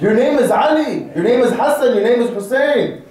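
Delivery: emphatic roll-call of proud names. Shown as a demonstration. Preacher rousing young men about their names, proudly. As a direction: proclaim each name with confidence. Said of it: "And say it with pride".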